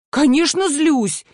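high, drawn-out, emphatic retort; hammed-up exasperation; angry. A narrator's reading. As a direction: stretch it out indignantly. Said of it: "ты не злишься?".

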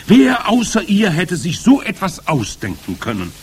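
high, loud crowd voice; adoring cry. A narrator's reading. Witch audience marvelling at their leader, adoring cries. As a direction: cry out in admiration. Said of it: "schrie das Publikum".

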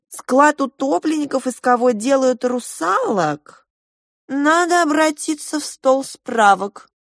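high, slow, sing-song landlady; a talkative hostess explaining her endless town. A narrator's reading. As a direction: lift into the hostess's fussy high voice. Hostess voiced by narrator.

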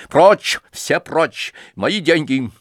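high loud shout of command; sharp shout. Acted. Nastasya shouting everyone away. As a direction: drive them all back with one cry.

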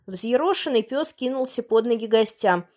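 plain reading voice

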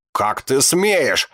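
slow, high, loud outraged scream. Acted. Teacher screams at the insolent student, slow and high. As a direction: shriek the words out, drawn out and high. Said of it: "зашлась в крике кукушка".

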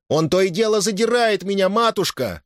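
high-pitched aggrieved croak; youth's hoarse protest. A narrator's reading. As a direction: complain to mother, straining high. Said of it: "прохрипел юноша". (сдавленная жалоба юноши)

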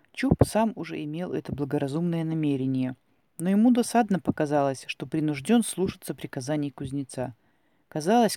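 ordinary delivery, nothing marked

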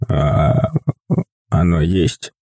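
put-on low old man's wondering question; a lightly voiced old man, amazed. A narrator's reading. Old man asks about sea. (низкий голос старика, с удивлением)

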